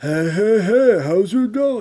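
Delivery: cartoon bully voice. Reviewing an episode, imitating a bully character: Fat Albert voice. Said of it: "tries to sound like Fat Albert".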